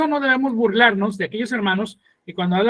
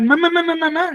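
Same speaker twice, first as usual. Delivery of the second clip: foreigner hearing syllables; 7 semitones higher than usual. Shown as a demonstration. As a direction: say it as a confused foreigner hears it. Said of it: "va a escuchar".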